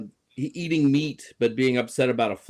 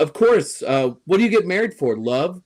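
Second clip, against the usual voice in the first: lightly voiced schemer, higher pitch; conniving character; 6 semitones higher than usual. Quoting the conniving one on marriage, lightly acted schemer. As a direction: toss it off higher, like a cynical schemer. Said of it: "the Lacey character, the, you know, conniving one".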